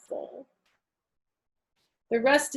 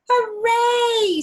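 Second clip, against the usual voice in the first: loud, high cheer; excited cheer; 11 dB louder than usual. Acted. Girl cheering on her first school day, loud and high. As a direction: shout it with pure joy. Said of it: "said Chrysanthemum".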